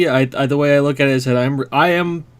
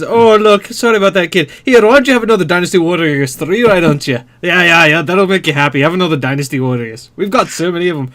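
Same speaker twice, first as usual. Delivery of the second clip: mock Scottish; 2 semitones higher than usual. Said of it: "Konami comes back and says".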